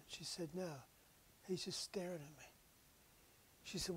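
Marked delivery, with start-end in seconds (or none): 0.5-2.5 hushed, breathless whisper of a dying woman; awed whisper. Retold or imitated. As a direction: whisper it as if he stands right there. Dying woman speaks softly.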